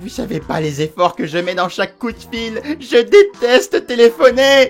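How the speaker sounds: loud, high, despairing and hopeless voice. Speaker complaining about phoning the building management, desperate voice. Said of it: "*voix désespérée*".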